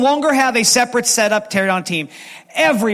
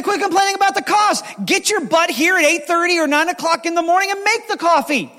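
retold scolding; 8 semitones higher than usual. Pastor retells scolding the complainers.

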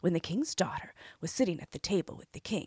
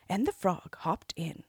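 ordinary delivery, nothing marked

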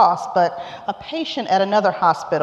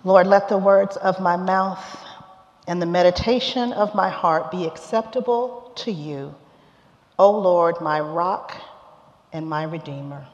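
prayer. Acted. Preacher praying before the sermon, reverent and hushed.

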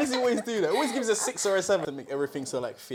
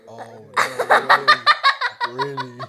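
fake concern; 6 dB louder, slower than usual. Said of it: "he's pretending to be concerned".

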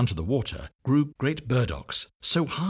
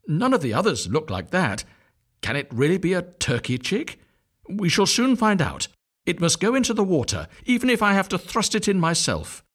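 high, louder resolute mother; determined mother duck; 9 semitones higher, 4 dB louder than usual. A narrator's reading. Mother duck deciding to test it in the water, high and loud. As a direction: make up her mind firmly.

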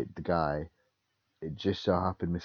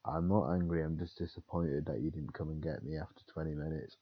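calm disappointment; 5 dB quieter than usual. Retold or imitated. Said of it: "And he went".

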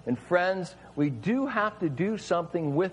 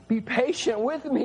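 mild pleading, pitched a little higher; begging servant; 6 semitones higher than usual. Acted. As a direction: plead gently for more time. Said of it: "he begged".

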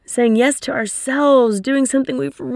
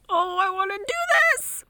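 higher, soft eager inner voice; 9 semitones higher, 6 dB quieter than usual. Retold or imitated. Coach voicing the listener's inner wish, higher and soft. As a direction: voice the part that longs to go. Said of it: "what's really being like".

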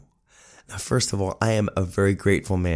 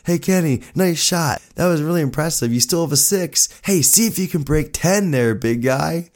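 much higher, teasing mock-praise; heckling grandfather; 8 semitones higher than usual. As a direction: rib the kid with fake admiration. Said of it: "He's heckling me the whole game".

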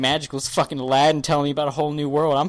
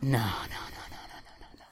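disbelieving denial; 6 semitones lower, 13 dB quieter than usual. Retold or imitated. Denial at the episode title.

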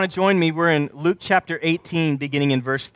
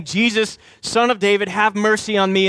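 imitated higher-pitched plea; crying out; 5 semitones higher than usual. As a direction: retell a beggar's cry, mildly raised. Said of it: "this man is crying out and he's saying".

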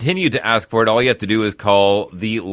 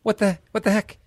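higher, mock indignant Italian fan voice; mock texter complaint; 10 semitones higher than usual. Host imitating annoyed Italian listeners' texts, mock whine. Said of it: "texted me yesterday that said".

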